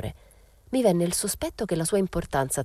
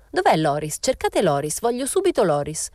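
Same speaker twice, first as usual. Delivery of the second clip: louder, rising demand for Loris; exclaiming; 4 semitones higher, 4 dB louder than usual. Acted. Mariella calling across the room, demanding Loris at once. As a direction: call out insistently, climbing at the end. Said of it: "Si guardò intorno ed esclamò".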